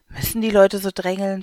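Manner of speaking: lightly voiced annoyed old woman; grumbling old woman. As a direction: scold the crowd mildly. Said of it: "schimpft eine alte Frau".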